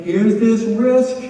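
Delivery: slow and loud, dragged out; mock teen bravado. Teen at a party accepting a dare, slow and loud. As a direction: act the kid stepping up to the dare. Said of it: "and you're like".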